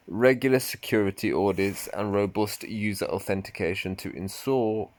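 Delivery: light put-on American accent; a hint of an American accent, steady reading. Shown as a demonstration. Rereading Mister Yanamochi's answer in an American accent. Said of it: "I'm gonna say that in American accent".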